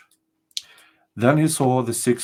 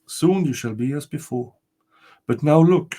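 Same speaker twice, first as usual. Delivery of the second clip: higher, solemn ghostly spirit; castle spirit; 5 semitones higher, 3 dB louder than usual. Acted. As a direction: announce yourself as the ancient spirit.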